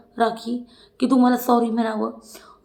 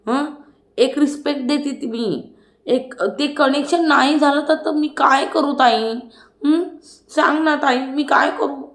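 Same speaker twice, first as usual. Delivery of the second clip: imitating a defensive plea, slightly higher; lightly mocked helpless appeal to an elder sister; Tanvi's pleading protest; 4 semitones higher than usual. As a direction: plead your case with stretched, lilting words. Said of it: "Tanvi म्हणते".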